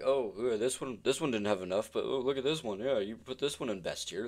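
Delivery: singsong mock-complainer voice; put-on heckler voice, pitch swooping; mocking imagined viewers. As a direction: imitate whiny critics nitpicking your ranking. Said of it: "You're gonna be like".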